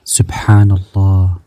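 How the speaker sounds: slow drawn-out whisper; whispered slow remembrance; whispered dhikr. Real, not acted. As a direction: breathe it out slowly, barely voiced.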